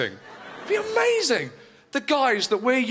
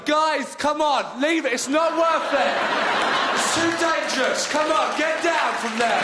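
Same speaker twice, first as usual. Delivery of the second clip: raised, higher mock yell from a train window; bloke shouting; 5 semitones higher than usual. A bloke at the train window yells at fighters, hammed-up shout. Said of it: "a bloke comes out the window".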